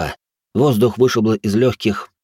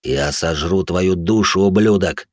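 booming monster voice; slower than usual. Acted. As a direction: growl it slowly, then spit the insult. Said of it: "Гулкий утробный голос эхом прозвучал у меня в голове".

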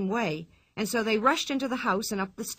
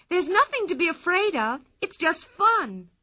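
higher, louder, gleeful; cried out; 8 semitones higher, 5 dB louder than usual. Acted. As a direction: laugh off their fear, calling out. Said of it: "cried Pippi".

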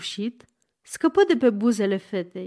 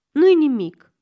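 louder, higher reassurance; encouraging; 5 semitones higher, 7 dB louder than usual. A narrator's reading. Man consoles the girl who kissed him, encouraging. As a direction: buck the listener up briskly. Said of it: "o încurajă domnul Eastwood".

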